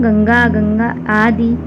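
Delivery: गंगा said slowly with a nasal ङ before ग; slow pronunciation demo. Shown as a demonstration. Teacher repeats गंगा slowly for students to copy. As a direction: stretch out गंगा, sounding the nasal fully. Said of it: "ये अंगा करके लिखा है".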